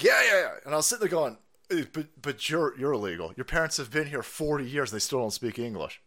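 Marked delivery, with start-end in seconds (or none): 0.0-0.5 mock eager agreement. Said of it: "They're like".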